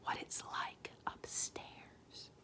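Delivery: very soft, slow, fearful; fearful whisper. A narrator's reading. Homily whispering to Arietti in fear. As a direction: whisper it in dread. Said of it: "dropped her voice to a fearful whisper".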